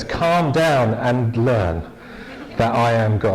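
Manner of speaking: slow, drawn-out hint of Liverpool; Liverpool accent. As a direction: lightly put on a Liverpool accent, stretching the words. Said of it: "only hear this one in a Liverpool accent".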